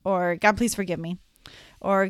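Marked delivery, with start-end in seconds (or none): 0.4-1.2 perfunctory plea for forgiveness; not meaning it. Shown as a demonstration. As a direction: rattle off the prayer without feeling. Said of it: "not saying it like you mean it".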